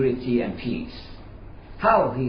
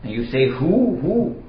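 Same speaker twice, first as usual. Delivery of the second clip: a retold policeman's raised, exasperated scolding; angry policeman; 4 semitones higher than usual. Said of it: "The policeman was angry and said".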